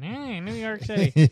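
Hercules. Retold or imitated. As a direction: imitate an Austrian strongman calling out. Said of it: "Hercules would be Austrian".

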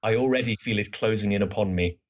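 a mildly theatrical literary reading, a touch world-weary; lightly voiced bored detective, opening on a stronger sigh of lament; Sherlock Holmes. Reading Holmes's lament aloud to co-hosts, mildly world-weary. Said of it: "Holmes just goes".

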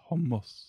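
Hummus repeated as "HOM-mos"; copied Arabic pronunciation. Shown as a demonstration. Co-host repeating Hummus on request, in Arabic pronunciation, HOM-mos. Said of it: "Say it".

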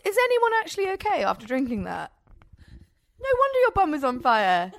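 high, choked reaction to spice; gasping after a spicy shot. Real, not acted. After drinking cayenne shot.

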